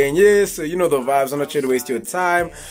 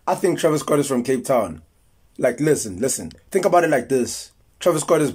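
know-it-all theorist; 3 semitones lower than usual. Acted. Low conspiratorial theorist character.

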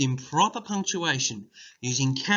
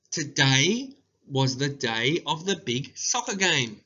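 slow, careful dictation pace; each word spaced for dictation; slower than usual. Shown as a demonstration. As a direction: read it out slowly for writing down. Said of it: "dictation read slowly".

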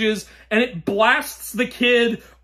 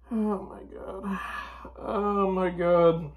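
exasperated whisper; 2 semitones lower, 7 dB quieter, slower than usual. Real, not acted. Exasperated review of awful film.

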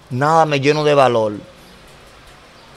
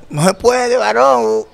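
curt refusal; 7 semitones higher, slower than usual. Retold or imitated. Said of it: "tan tajantemente".

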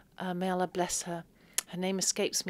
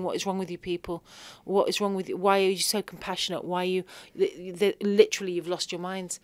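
louder exasperated questions, half-played; retold outburst; 4 dB louder than usual. To the compassionate family, a retold exasperated outburst. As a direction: fire the questions in mock frustration. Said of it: "I did actually burst out".

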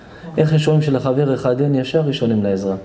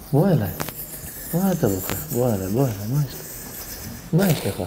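gentle, real consoling voice; tender comforting; 3 dB quieter than usual. Real, not acted. Rabbi to a crying listener at the lesson, tender. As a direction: coax a weeping man to come close.

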